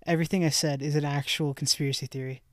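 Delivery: excited reveal. Real, not acted. Big reveal, all true.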